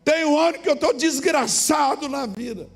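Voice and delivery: high, loud desperate begging; a desperate man shouting his apology up to the window; pleading shout. Retold or imitated. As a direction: cry out for forgiveness at the door. Man begging at door at night.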